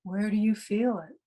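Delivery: unhurried meditation guide with long pauses; calm meditation instruction, spaciously phrased; guided meditation. Real, not acted. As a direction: guide listeners gently inward, pausing between phrases.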